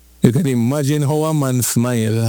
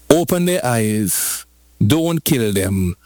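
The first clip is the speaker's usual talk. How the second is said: slow low command; 4 semitones lower, slower than usual. Acted. Preacher voicing merciful command.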